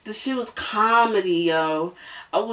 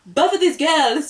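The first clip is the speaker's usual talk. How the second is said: imitating an island accent, pitched higher; the singer's accent; 5 semitones higher than usual. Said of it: "Spice has the accent".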